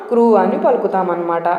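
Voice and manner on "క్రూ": క్రూ said as one syllable kru; pronounce crew. Shown as a demonstration. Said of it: "దీన్ని ఎలా పలుకుతాం?".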